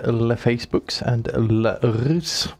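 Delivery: slow, stretched mock-French article and names. Co-host posting links on the show, mock French. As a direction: put on playful faux-French. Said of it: "that's how the French pronounce".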